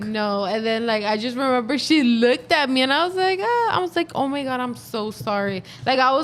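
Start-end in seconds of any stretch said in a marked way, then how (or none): 3.4-5.6 retold apologetic gasp; mock mortified apology. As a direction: reenact a mild, horrified "oops". Retold apology after spilling drink.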